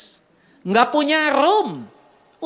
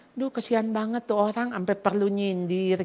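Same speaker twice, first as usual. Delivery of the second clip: acted-out compassion, softer and lower; retold pity; 4 semitones lower, 5 dB quieter than usual. Preacher voicing her new pity for a sarcastic critic, softly compassionate. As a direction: drop to a soft, pitying aside. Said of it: "kok yang ada belas kasihan ya?".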